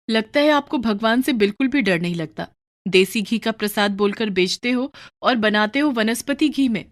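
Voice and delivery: lightly voiced scolding wife; Lakshmi, mildly reproachful. Wife chiding husband over adulterated prasad, mildly reproachful.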